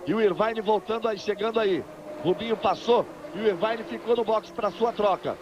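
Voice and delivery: brisk live race call; motorsport commentator. Real, not acted. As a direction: call the pit stops live, upbeat.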